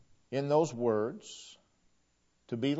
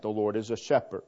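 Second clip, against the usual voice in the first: mild wonder; 3 semitones lower, faster than usual. Shown as a demonstration. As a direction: say it with only a little awe. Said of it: "detect a tone of wonder in that".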